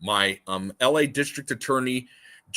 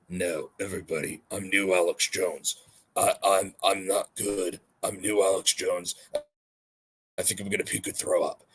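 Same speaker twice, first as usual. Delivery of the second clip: lightly lowered, queasy mumbling Alex Jones; new Alex Jones impression; 3 semitones lower, 3 dB quieter than usual. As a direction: mumble like a sick Alex Jones about to puke. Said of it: "That's new Alex Jones".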